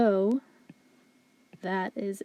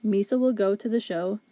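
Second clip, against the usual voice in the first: even, monotone robot reading. Shown as a demonstration. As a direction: say it like a machine, each word flat. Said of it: "if we were to speak like a robot".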